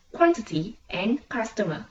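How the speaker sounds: "quantity and customer" with QUAN and CUS strong; first-syllable stress. Shown as a demonstration. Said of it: "stress to fall on the first syllable".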